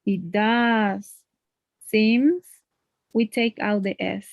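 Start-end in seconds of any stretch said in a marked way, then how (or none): 0.0-2.4 DOES held long, then a pause; emphasis on DOES. Shown as a demonstration. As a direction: stretch does out and stop before seems. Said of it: "auxiliary verb to emphasize".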